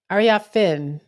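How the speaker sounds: "Ariafin" as AR-ee-ah-FIN, carefully; careful name pronunciation. Shown as a demonstration. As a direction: try out "Ariafin" with a clear last syllable. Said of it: "Kiki's last name is pronounced".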